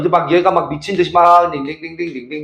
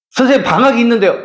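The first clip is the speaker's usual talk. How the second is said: student objecting; 5 semitones higher, faster than usual. Retold or imitated. Teacher voices student objecting.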